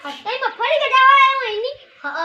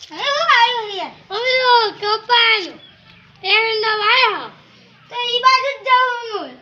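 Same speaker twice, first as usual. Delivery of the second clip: calling out. Acted. Calling out alone in the field.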